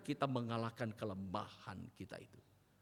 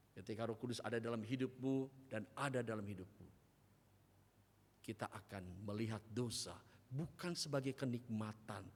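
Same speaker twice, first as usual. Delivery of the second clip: ordinary delivery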